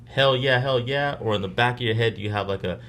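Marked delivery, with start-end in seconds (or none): 0.1-1.2 mock cheer. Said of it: "are you just like".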